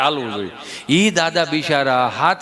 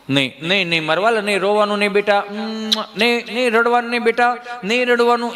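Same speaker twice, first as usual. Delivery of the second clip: lightly voiced mother hushing; calm the crying boy; soothing mother; 2 semitones higher than usual. Mother hushes crying child.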